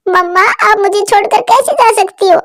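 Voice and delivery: put-on a small boy begging for his mother back; crying little boy. Little chick crying as his mother floats away, high tearful pleading. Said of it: "जोरों से रोने लग जाता है".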